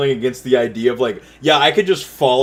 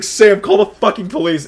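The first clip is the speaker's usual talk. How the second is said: higher, mildly raised mock yell; retold scream; 7 semitones higher, 3 dB louder than usual. Telling how he called Sam for police, mock screaming. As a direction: re-enact the panicked call for help. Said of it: "and I scream".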